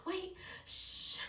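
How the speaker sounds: high panicked pleading. Retold or imitated. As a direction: beg him to stop. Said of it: "I was like".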